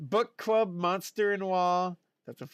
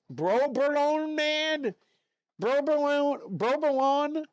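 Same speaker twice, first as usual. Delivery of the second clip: trying the name; 8 semitones higher, slower than usual. Shown as a demonstration. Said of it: "Bro, I can't even say it".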